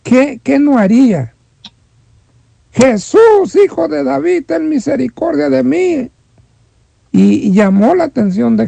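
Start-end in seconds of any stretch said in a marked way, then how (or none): 2.7-6.1 crying out. Retold or imitated. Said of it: "gritó a todo pulmón".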